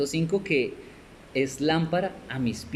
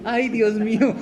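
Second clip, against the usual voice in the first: mock panic; 8 semitones higher, 6 dB louder than usual. Pastor left behind by rapture.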